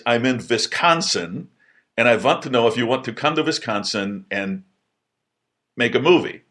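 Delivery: lightly voiced German accent, measured delivery. German film director phoning a college kid with an offer, German accent. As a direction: imitate a German director on the phone. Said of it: "doing, like, this bad German accent".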